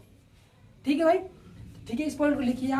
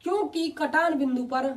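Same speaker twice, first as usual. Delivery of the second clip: slow dictation; 3 semitones higher than usual. Shown as a demonstration. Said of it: "देखो मैं बोल रहा हूँ".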